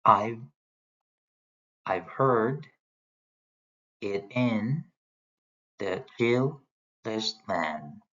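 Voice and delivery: slow, broken-up "I've heard it in the chillest land", stressing "heard"; iambic stress demo. Shown as a demonstration. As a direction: pause between feet, leaning on the second beat as in "I've HEARD". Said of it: "de-emphasize I've and you emphasize heard".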